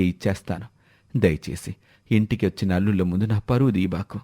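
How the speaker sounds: an indebted father pleading to keep his house; pleading old man. Acted. Debtor begs not to shame him.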